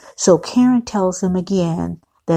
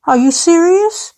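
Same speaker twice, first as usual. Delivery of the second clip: high, louder incredulous question; acted disbelief; 11 semitones higher, 5 dB louder than usual. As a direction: play Karen taken aback, voice jumping up. Voicing Karen's reaction to foot request.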